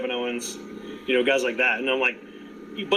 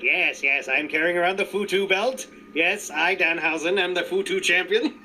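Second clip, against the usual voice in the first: lightly voiced creepy villain; Danhausen impression. Fan doing Danhausen for friends, lightly creepy. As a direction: savor each yes like a spooky villain. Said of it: "you're doing good impression".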